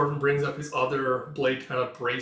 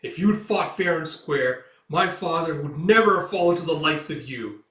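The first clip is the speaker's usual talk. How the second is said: mild anger, building louder; indignant defence of a father; angry; 3 semitones higher, 6 dB louder than usual. Acted. Son to his father's killer, acted anger. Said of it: "Thorfinn just getting angry".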